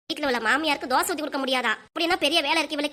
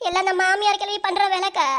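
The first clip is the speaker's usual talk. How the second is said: whiny, acted crying; plaintive wail to a friend; tearful complaint; 3 semitones higher than usual. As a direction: blame someone through mock tears. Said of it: "ஏன்டி அழுவுற?".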